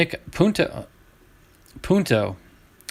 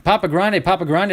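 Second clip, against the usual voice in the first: imitating fans chanting, slightly raised; lightly shouted chant, pitched up a little; mock crowd shout; 4 semitones higher than usual. Collector imitating fans shouting a nickname, mock shout. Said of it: "when people were shouting".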